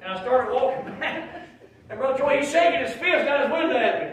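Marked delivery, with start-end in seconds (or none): 1.9-4.1 louder, higher and laughing; excited, laughing telling. Real, not acted. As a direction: build it up with laughter. Excited retelling of standoff.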